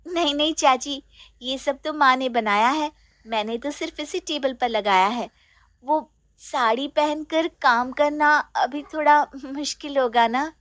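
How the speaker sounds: put-on honest young bride. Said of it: "Sheena बोल देती है".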